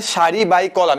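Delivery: "সারি by কলাম" with by for the times sign. Shown as a demonstration. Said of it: "এভাবে উচ্চারণ করবা". (গুণ চিহ্নকে by বলে "সারি by কলাম")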